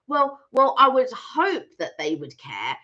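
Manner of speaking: retold cautious, hesitant answer; careful hedging. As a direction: pick the words carefully, slightly slowed. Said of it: "'cause very careful".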